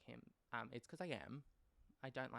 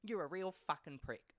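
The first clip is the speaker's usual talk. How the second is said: louder, scornful telling-off; mum telling him off; 3 semitones higher, 5 dB louder than usual. Retold or imitated. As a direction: spit the insult at the husband. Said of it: "Mum's like".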